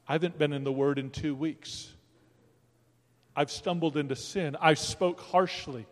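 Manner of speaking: mock despairing believer. Despairing believer's voiced prayer.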